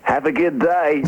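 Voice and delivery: slow, put-on American accent; American accent impression. British DJ signing off to the hosts, American accent. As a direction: sign off in a drawn-out mock American accent. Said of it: "do that accent for the entire interview".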